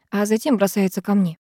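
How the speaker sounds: ordinary delivery, nothing marked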